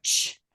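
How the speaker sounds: "ch" as all air; voiceless sound. Shown as a demonstration. Speech coach isolating a sound, "ch" unvoiced and drawn out. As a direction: make "ch" with air only, no voice. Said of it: "You just have all air".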